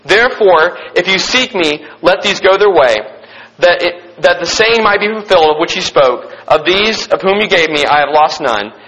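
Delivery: measured, formal Bible reading voice; scripture reading. Acted. Pastor reading scripture to his youth group, in a measured reverent reading voice. Pastor reads John aloud.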